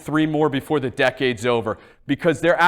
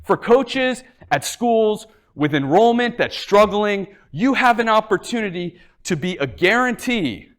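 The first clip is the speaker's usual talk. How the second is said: too much caffeine; 4 semitones higher than usual. Real, not acted. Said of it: "so I'm, like, wired right now".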